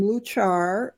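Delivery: luchar said the Spanish way, rolled final r; Spanish accent. Shown as a demonstration. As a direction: pronounce luchar as Spanish loo-CHAR, stress on the last syllable. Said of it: "forgive my terrible Spanish accent".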